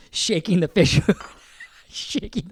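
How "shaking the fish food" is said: ordinary talk, nothing marked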